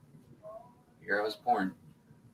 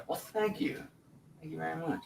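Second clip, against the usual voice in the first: mock flattered thanks; 7 semitones higher, 14 dB quieter than usual. Thanks a viewer for compliment.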